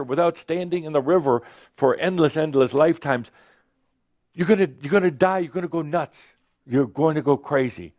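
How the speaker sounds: high, frantic pleading of the body; hammed-up fearful inner voice; panicked body voice. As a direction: scold yourself back to the river. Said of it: "your body going".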